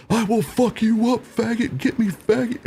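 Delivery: very high, squeaky mock threat; chirping tough guy. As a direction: mimic a little man's threats in a squeal. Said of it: "the guy starts chirping more".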